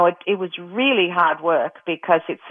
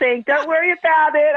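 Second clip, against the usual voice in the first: tearful reassurance; 10 semitones higher than usual. Retold or imitated. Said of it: "And I was crying".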